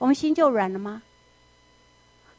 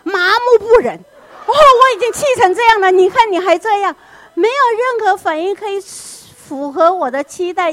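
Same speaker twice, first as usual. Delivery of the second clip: very loud, much higher furious yelling; enraged parent; 9 semitones higher, 10 dB louder than usual. Acted. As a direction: let the rage boil over. Parent raging at unresponsive child. (父母气到极点地大吼)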